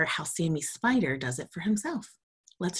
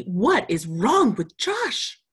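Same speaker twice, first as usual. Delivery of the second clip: put-on louder, higher, slower child's question; worried little spider; 4 semitones higher, 5 dB louder, slower than usual. Sammy calling to his mother about sick Josh, worried. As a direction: call up to mother anxiously. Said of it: "shouted Sammy".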